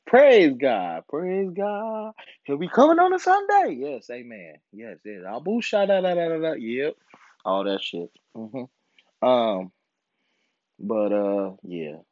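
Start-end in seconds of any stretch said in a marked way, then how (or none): 0.1-6.5 a hint of a preacher, then mock tongues; mock church praise. Comedian mocking church praise and tongues, lightly preached. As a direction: ham up a church shout.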